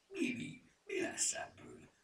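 worried stage whisper. A narrator's reading. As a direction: whisper it under your breath to a friend.

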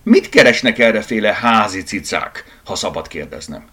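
loud challenge from a boss cat; forceful, easing into mock politeness; loud meow. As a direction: challenge the intruders, then ease off. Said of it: "nyávogott hangosan".

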